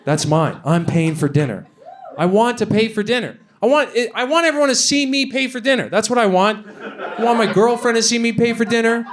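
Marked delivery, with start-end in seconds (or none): 2.2-9.0 higher-pitched, building insistence; insistent mock demand. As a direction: demand it like a comic tantrum. Mock-insistent rant building for comedy.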